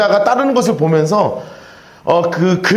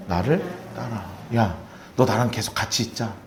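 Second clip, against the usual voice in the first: tender Jesus; 9 semitones lower, 11 dB quieter than usual. Acted. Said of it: "뭐라고 말씀하셨어요?".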